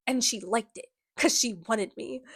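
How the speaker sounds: lightly voiced smug creep; slimy villain purr; creepy villain voice. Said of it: "This is the Sebastian voice".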